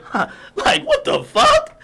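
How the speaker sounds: high squeal of laughing disbelief. Real, not acted. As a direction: burst out laughing in shock.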